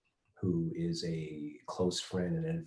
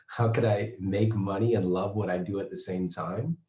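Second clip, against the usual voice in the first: laugh, then louder amused delivery; amused laughter; 5 dB louder than usual. Real, not acted. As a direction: start on a chuckle and push it out louder. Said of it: "I'm laughing because I remember".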